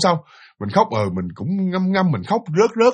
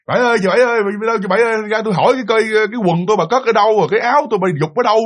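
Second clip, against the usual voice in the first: calling out; 3 semitones higher, faster than usual. Retold or imitated. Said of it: "muốn nhờ bà Bảy, muốn hỏi".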